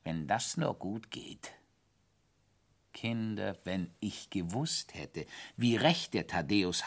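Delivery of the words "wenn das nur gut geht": grumbling. Acted. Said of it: "Da brummte Thaddäus".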